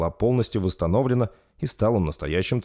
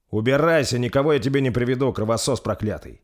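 angry; 5 semitones higher than usual. Acted. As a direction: throw him out in rage. King drives vampire away.

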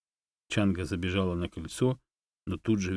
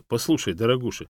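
louder offended protest; indignant; 5 semitones higher, 6 dB louder than usual. A narrator's reading. Dog protesting the monkey's nickname, indignant. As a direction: bristle with outrage. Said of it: "возмутился".

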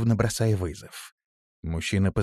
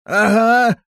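high, loud tearful yelp; wounded whimpering wail; sobbing, hiccuping; 9 dB louder than usual. A narrator's reading. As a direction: blurt it through sobs. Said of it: "всхлипывая, икая и баюкая раненую руку".

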